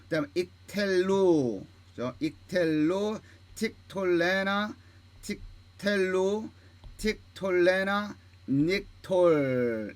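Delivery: slow, evenly spaced recitation of each word; model word-list reading. Shown as a demonstration. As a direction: read down the list deliberately, stretching the final syllables. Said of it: "다시 한번 읽어볼게요". (단어를 하나씩 또박또박 읽기)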